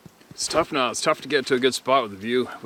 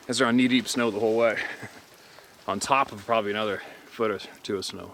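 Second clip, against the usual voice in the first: out of breath. Real, not acted. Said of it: "that's why I'm a little out of breath".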